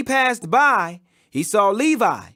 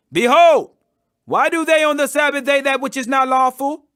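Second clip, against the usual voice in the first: loud, pointed challenge from the Pharisees; raised accusing voice; 4 semitones higher, 4 dB louder than usual. Acted. Pharisees challenging Jesus over the Sabbath, loud and accusing. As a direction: call out the law-breaking sharply.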